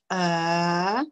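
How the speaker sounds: long, steady E vowel on its own; voyelle isolée. Shown as a demonstration. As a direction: hold the E as one low, drawn-out vowel. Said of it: "Notre voyelle". (E, voyelle longue et tenue)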